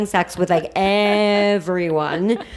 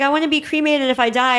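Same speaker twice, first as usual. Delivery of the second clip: imitating friend; 7 semitones higher than usual. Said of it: "she's like".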